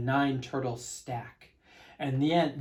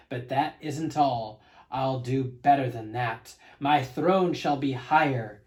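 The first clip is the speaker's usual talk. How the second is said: thundering king; 3 dB louder than usual. Acted. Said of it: "his royal voice thundered".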